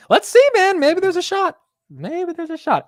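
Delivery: real excited squeal; excited high hope. Real, not acted. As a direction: pitch way up, hyped for the price target. Hoping the stock hits target.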